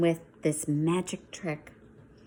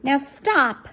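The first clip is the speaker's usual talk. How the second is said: loud higher command; 7 semitones higher, 8 dB louder than usual. Acted. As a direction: stop them firmly. Max commanding.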